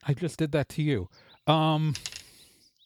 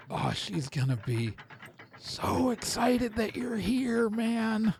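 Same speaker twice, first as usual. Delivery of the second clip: higher, slow, teasing guard voice; hint at a big surprise; excited guard; 6 semitones higher, slower than usual. Acted. Guard tells the arrivals she will be thrilled. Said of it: "and goes".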